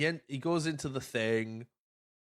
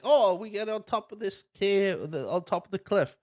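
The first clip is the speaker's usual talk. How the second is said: high-pitched eager retelling; mock excitement; 7 semitones higher than usual. Kids climbing out of the dragon, mock excitement. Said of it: "and like".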